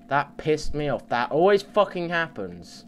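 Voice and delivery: annoyed. Real, not acted.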